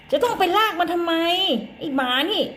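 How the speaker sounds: high, exasperated mock scolding of a naughty dog. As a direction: tell off the dog like a fed-up mom, pitched high. Mother scolds dog Latte. (ดุหมาเสียงสูงแบบแม่บ่น)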